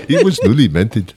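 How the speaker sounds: put-on light Indian accent on the line. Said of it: "with the Indian accent".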